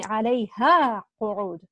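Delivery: "alayha" drawn out and loud, then "qu'ud" dropping; emphatic stress. Shown as a demonstration. Teacher showing students the verse's emphasis, "alayha" stressed. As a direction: lean hard on "alayha" before a falling "qu'ud". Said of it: "Do you see that emphasis there".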